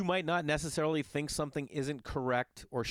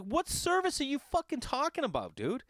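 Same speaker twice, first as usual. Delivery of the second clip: high, incredulous outburst at the fee; a comic rant at a ticket seller; mock outrage. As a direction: throw the question back in disbelief.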